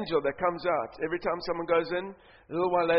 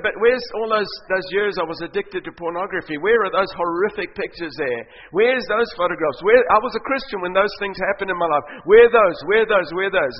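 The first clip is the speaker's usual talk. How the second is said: insistent demand; 6 dB louder than usual. Acted. Believers demand the missing photographs.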